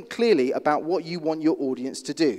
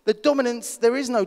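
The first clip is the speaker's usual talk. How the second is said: high voice; 8 semitones higher than usual. Shown as a demonstration. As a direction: raise the pitch high to show a weak voice. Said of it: "when you speak like this".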